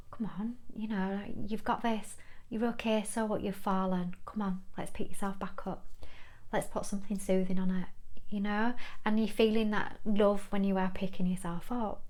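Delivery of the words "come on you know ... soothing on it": a hint of a tender mother soothing a fall; gentle motherly voice. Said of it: "not the gentle, motherly".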